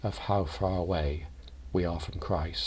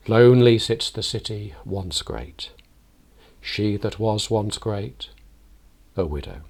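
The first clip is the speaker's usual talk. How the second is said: dirge reading; 2 semitones higher, 7 dB louder than usual. Shown as a demonstration. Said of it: "There is a dirge quality".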